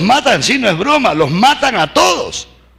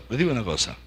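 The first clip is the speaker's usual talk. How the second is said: much softer and lower, almost confiding; hushed repeat; 9 semitones lower, 12 dB quieter, much faster than usual. Shown as a demonstration. Preacher confiding to the congregation, hushed. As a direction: draw them in by dropping the voice. Repeated, then dropped to a hush.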